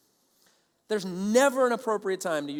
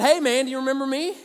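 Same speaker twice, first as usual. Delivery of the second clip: raised, loud challenge; confronting call; 6 semitones higher, 9 dB louder than usual. Retold or imitated. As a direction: call him out, half acted. Confronting his childhood bully.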